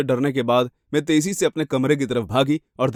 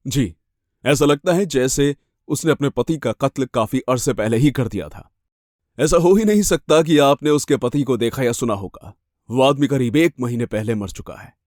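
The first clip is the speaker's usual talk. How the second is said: lightly voiced male officer; matter-of-fact policeman. Police officer telling a victim the husband died earlier, matter-of-fact. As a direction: explain the facts officially.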